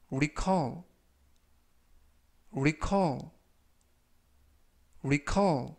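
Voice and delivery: section said slowly and clearly; slow model pronunciation. Shown as a demonstration. Teacher reading vocabulary aloud for review, slow and clear. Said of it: "제가 천천히 세 번씩 읽어드리고요".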